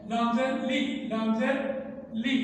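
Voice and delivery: لی said with a clear ee; لی as a bright long ee; correct zer sound. Shown as a demonstration. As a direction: teach لام زیر لی with a pure i vowel. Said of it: "ای کی آواز نکالیں".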